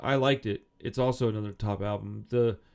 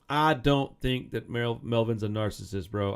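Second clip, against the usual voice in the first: slow, drawled redneck accent on the words. Real, not acted. Podcast host hears himself sound like a redneck, redneck accent. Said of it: "I sound like a redneck on that one".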